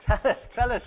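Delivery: eagerly asking for the news. Retold or imitated. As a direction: lean in and beg for the story. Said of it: "eagerly expecting".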